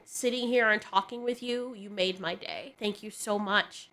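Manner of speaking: softly retold, sincere thanks; gentle, understated gratitude; heartfelt gratitude. Retold heartfelt thanks from homeless man.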